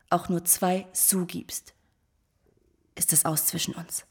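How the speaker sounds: whisper. Acted. Threat to Crevel, hushed.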